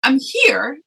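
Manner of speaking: high-pitched mock crying voice; retold tearful wail. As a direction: play back a tearful phone call. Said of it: "And I'm crying".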